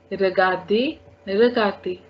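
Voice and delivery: "regarder" said ruh-gar-day. Shown as a demonstration. Teacher showing the E R ending, "regarder" as ruh-gar-day. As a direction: end "regarder" on ay, no final R. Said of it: "Both times the sound is same".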